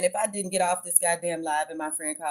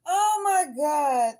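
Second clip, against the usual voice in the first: high, slow shouted "oh my God"; overwhelmed outburst; 8 semitones higher, much slower than usual. Real, not acted. Recalling the bus scene, overwhelmed exclamation.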